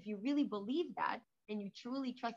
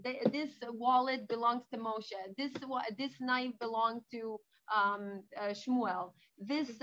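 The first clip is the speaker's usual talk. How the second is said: lightly voiced thief, louder, listing each stolen item; 6 dB louder, slower than usual. Thief to the rabbi, a loud mock confession. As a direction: hand back each item like a proud penitent.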